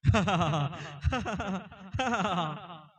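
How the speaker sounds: loud, drawn-out mock wail; mock crying. Shown as a demonstration. Teacher showing children how they cry, mock wailing. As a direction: fake crying in repeated bursts. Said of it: "ఎలా ఏడుస్తారు మీరు?".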